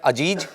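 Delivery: अजीज said with j sounds, "ajeej"; variant pronunciation. Shown as a demonstration. Trainer shows students one way of saying the name, ajeej. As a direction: say अजीज with a hard j in place of z. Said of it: "ये दो तीन तरह से ही बोला जा सकता है".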